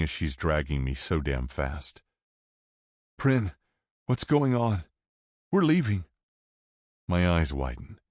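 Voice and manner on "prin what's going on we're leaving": put-on teen boy voice. A narrator's reading. Coda voiced, raised.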